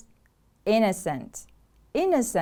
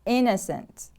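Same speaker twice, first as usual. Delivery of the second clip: "Innocent" with the stress on IN; stress on first syllable. Shown as a demonstration. Teacher models the word for repeating, stress on IN in "Innocent". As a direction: stress the opening of "Innocent" and fall away. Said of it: "The stress is on the first syllable".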